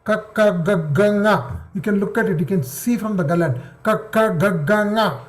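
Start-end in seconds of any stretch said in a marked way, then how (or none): 0.0-1.6 ka, ka, ga, ga, nga sounded from the throat; throat consonants demo. Shown as a demonstration. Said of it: "It comes from the throat". 3.8-5.2 ka, ka, ga, ga, nga sounded from the throat; throat consonants demo. Shown as a demonstration. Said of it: "It comes from the throat".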